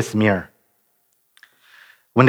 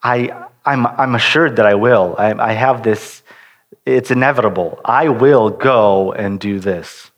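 assured declaration; 2 semitones lower than usual. Retold or imitated. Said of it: "me stating".

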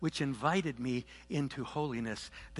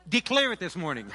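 talking with slipping dentures; loose dentures; 3 semitones higher, 6 dB louder than usual. Real, not acted. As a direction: speak around loose dentures. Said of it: "My dentures are slipping".

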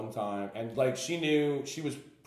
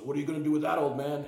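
higher, louder sneering jeer; mocking challenge; 6 semitones higher, 6 dB louder, faster than usual. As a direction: jeer at the old man. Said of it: "The kid goes".

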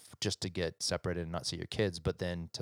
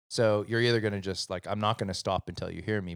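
raised, louder retold telling-off; insistent dad; 5 dB louder than usual. Dad telling son he won't stop until heard, insistent. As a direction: press the point like a fed-up parent. Retells scolding son over homework.

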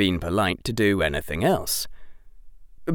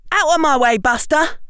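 much higher, louder angry shriek of a reporter; snapping; 6 dB louder than usual. A narrator's reading. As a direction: shove past him with contempt. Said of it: "snapped Rita".

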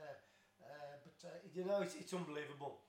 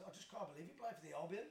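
retold laughing Queen. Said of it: "she just looked at me and says".

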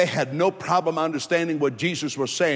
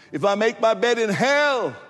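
emphatic scripture quote; 4 semitones higher than usual. Real, not acted. Dramatic repeat of scripture verse.

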